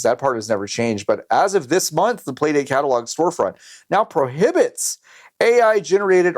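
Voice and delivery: clickbait video narrator; YouTuber voice. Acted. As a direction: read it like a hyped YouTuber. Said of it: "You're doing it in the YouTuber voice".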